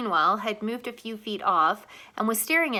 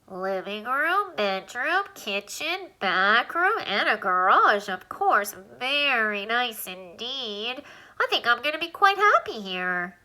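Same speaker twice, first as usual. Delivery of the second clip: a lightly squeaky little alien, pleased with the rooms; touring a new house, slow and content; slower than usual. Acted. Alien lists the rooms in Alan's nose, lightly squeaky and pleased.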